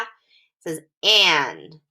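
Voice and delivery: "an" said slowly, not ah; glued an sound. Shown as a demonstration. Teacher contrasts short a with an. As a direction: stretch out "an" slowly. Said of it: "It doesn't say ah".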